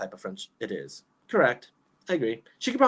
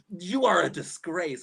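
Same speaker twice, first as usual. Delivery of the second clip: slow, slightly higher mock scolding; mock-stern dad; 5 semitones higher, slower than usual. Imitating dad scolding her over Taco Bell, mock-stern. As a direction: draw out a mock-disgusted verdict. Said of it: "he's like".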